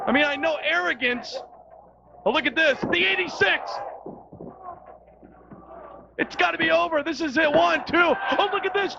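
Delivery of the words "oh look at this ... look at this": higher, shouted ringside call; wrestling commentator hyped on the action; excited play-by-play. Acted. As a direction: call the spray like a live finish. Near-fall play-by-play call.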